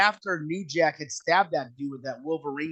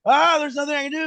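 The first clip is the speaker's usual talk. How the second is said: mock helpless wail; 12 semitones higher, 6 dB louder than usual. Josh helpless in the ring.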